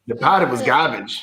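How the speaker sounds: put-on low-pitched send-up of an Australian accent. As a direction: imitate an Australian accent, dropping the r's. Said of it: "Tell me that's not Australian".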